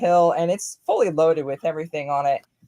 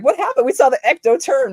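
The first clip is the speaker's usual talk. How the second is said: high, curious quote; surprised question; 8 semitones higher, 5 dB louder than usual. Retold or imitated. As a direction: ask it with raised pitch. Fans asking what happened.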